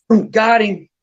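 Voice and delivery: high, loud catch announcement; retold triumph. Daughter hooks a fish within minutes, retold triumph. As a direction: imitate a kid crowing over a catch.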